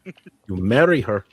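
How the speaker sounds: slow, loud, weighty order; stern command. Acted. Innkeeper holding a young man by the ear, stern command. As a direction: press each word slowly and firmly.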